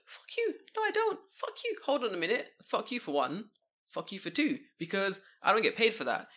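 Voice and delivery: high-pitched mock rant at the manager, well above his own voice; retold outburst. Ranting high and mock-furious at the manager who wants him to stay late. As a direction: squeal the fury out in a high comic voice. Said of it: "I was like".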